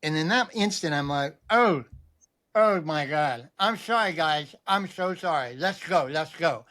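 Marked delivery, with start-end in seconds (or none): 1.5-6.7 retold dawning dismay, slightly garbled; sounding cuckoo. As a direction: imitate hearing yourself talk oddly, apologetic. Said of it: "saying those words in that manner".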